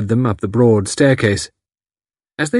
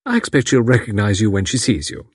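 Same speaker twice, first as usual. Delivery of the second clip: cheerful. Acted. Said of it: "went on cheerfully".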